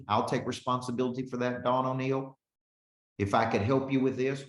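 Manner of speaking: brisk sales pitch read out; friendly salesman demo; demo sales message. Shown as a demonstration. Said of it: "That's a closing question".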